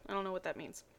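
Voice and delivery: ordinary delivery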